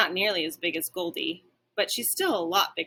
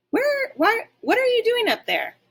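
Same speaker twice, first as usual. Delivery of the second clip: higher, louder alarmed cry up the tree; alarmed calling; 8 dB louder than usual. A narrator's reading. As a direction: shout up in confusion. Dog upset, calling up tree.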